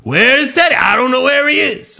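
high sing-song taunt; teasing the dog. Retold or imitated. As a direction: play dumb in a high voice to rile him. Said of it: "I'm just like an asshole".

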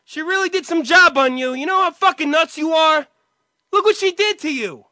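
yelling accusations at his brother; loud, high-pitched acted outburst; acted furious rant. Brother screams at brother in an acted movie scene, furious. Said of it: "End scene".

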